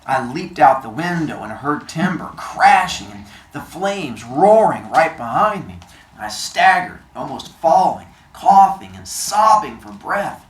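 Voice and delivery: low, measured read-aloud; story narration. A narrator's reading. Teacher reading the novel to the class, low narration.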